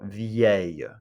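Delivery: "Vieille" repeated for learners, closing on a Y glide; "Vieille" with a silent L and Y ending; demonstrating pronunciation. Shown as a demonstration. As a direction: say "Vieille" as vyay-yuh with no L. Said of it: "It's pronounced like this".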